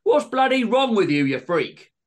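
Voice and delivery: loud, high outraged yell; furious shout. A narrator's reading. Greg knocked over, rounding on John, shouting. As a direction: explode at him in disbelief. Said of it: "Greg stood up and shouted".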